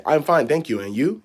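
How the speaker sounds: stiff, robotic reply; a mild mock robotic answer; robotic textbook English. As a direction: recite it like a phrasebook robot. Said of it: "you sound like a robot".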